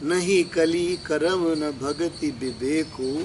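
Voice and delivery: slow, measured scripture quote; verse recitation. Real, not acted. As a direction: recite the line slowly before explaining it. Recites verse before explaining it. (धीमा चौपाई पाठ)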